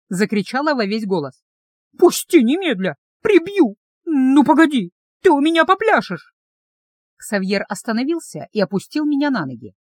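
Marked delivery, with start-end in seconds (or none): 2.0-6.3 high, loud furious threats. A narrator's reading. Heroine carried off by the dragon, furious threats. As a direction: threaten him at full pitch.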